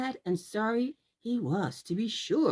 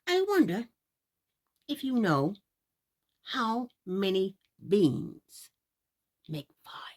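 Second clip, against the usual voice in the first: put-on sly old man. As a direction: draw him in with a riddle. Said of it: "said the man".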